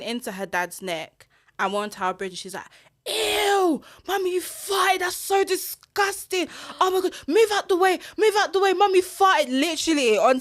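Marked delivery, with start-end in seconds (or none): 3.1-9.5 high, mock-disgusted little girl; teasing toddler voice. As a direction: squeal it like a child teasing mum. Mum voices daughter teasing.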